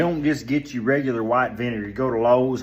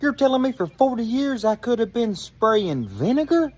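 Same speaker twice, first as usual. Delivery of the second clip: much higher, loud, laughing disbelief; 12 semitones higher, 5 dB louder than usual. Real, not acted. Man learning vinegar kills weeds, laughing disbelief. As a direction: react in amazed laughter. Shocked reaction to vinegar tip.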